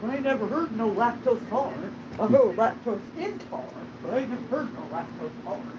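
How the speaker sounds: imitating her uncle with a loud hick twang; Uncle Junior impression. Imitating Uncle Junior to his niece, loud mock hick. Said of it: "I can still imitate her Uncle Junior pretty well".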